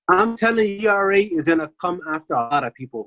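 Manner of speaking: flat robot voice like a Decepticon. Real, not acted. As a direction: talk like a robot, evenly. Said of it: "You sound like a Decepticon".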